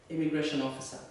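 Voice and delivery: plain reading voice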